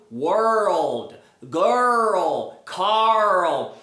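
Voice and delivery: put-on world, girl, Carl drawn out, each with a full L; demonstrated English pronunciation. Shown as a demonstration. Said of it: "a parte que as pessoas mais têm dificuldade". (world, girl, Carl com o L bem pronunciado)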